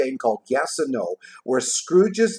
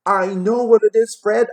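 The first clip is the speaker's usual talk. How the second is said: much higher, louder, gleeful shout; gleeful cry; 9 semitones higher, 7 dB louder than usual. A narrator's reading. Plump sister calls out to Fred, gleeful high cry. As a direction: burst out with the answer. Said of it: "she cried out with glee".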